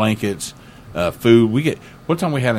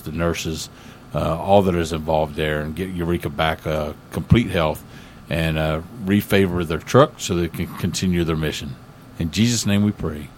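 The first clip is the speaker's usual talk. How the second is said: earnest, steady pastor's prayer voice; spoken prayer. Acted. Pastor praying for a friend's healing, earnest prayer. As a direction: pray it simply and sincerely.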